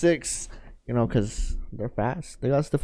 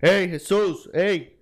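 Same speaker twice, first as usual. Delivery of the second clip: slightly raised, hammed-up call to a student; mock stern call-out; 4 semitones higher, slower than usual. Co-host urging the teacher to show his bark, mock stern. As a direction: call him out, playing the tough teacher. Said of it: "let him know how you say".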